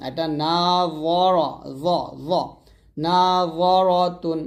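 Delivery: নাযরাতুন very slow with a heavy য. Shown as a demonstration. Teacher demonstrating heavy য slowly. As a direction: stretch নাযরাতুন with a full য. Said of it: "অথবা নাযিরাতুন এরকম".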